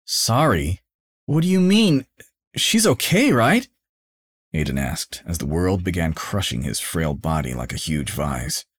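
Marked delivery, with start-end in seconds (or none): 0.1-3.7 high, louder pleading questions; desperate disbelief. A narrator's reading. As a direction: refuse to believe it. Son learning of girlfriend's death.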